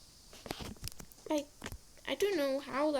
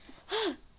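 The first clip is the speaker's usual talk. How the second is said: gasp; 5 semitones higher than usual. Real, not acted. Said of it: "Sorry, took my rage".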